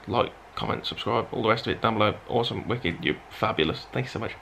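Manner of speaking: too tired to push the voice, trailing low; tired and quiet. Real, not acted. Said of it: "I'm so tired".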